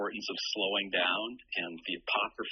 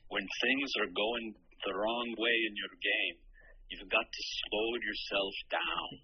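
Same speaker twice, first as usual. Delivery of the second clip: slow, lightly done Scottish brogue; a hint of an old Scottish caddie; slower than usual. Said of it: "in a very thick Scottish brogue".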